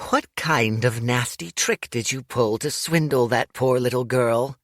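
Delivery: mock-accusing old granny; old lady scolding Dorian, lightly voiced; old lady Meng. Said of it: "said Meng".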